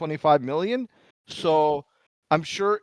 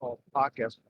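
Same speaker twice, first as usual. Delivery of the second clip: muffled and distant over a bad mic; underwater mic; 8 dB quieter than usual. Real, not acted. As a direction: voice like it's coming through water. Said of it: "sounds like you're underwater".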